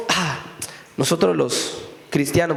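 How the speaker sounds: hint of sanctimonious church voice, mocking; preacher mocking believers who say Christians don't cry; mock pious Christian. Mocking self-righteous believers.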